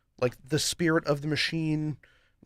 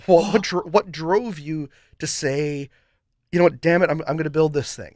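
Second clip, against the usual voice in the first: Peter Griffin philosopher; 6 dB louder than usual. Acted. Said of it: "Peter Griffin philosopher impression".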